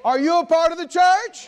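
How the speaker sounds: loud, high call to the crowd; shout. Real, not acted. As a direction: fire the question out. Preacher calling to congregation.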